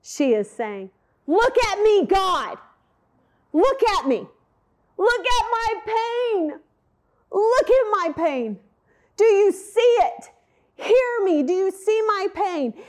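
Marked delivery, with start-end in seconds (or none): 1.3-12.7 high, loud anguished plea; crying out in pain. Acted. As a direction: cry out to God in anguish. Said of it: "she's crying out in pain".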